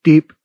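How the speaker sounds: quick sharp beep; short beep. Shown as a demonstration. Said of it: "No lingering big beep".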